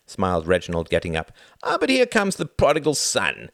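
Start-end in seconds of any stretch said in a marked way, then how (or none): 1.6-3.5 high, jovial welcome; breezy grin. A narrator's reading. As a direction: announce the arrival with a breezy grin. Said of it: "Reginald grinned breezily".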